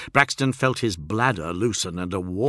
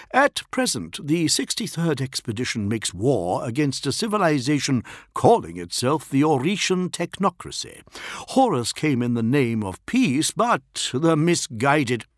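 higher, measured envoy's report; lightly voiced official envoy; 6 semitones higher than usual. Envoy briefs a primarch on the war, formal.

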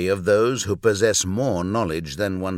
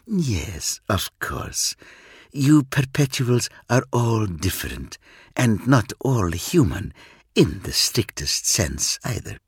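a cool Eldar, aloof and sure of himself; alien Eldar. Acted. Eldar on the perpetuals.

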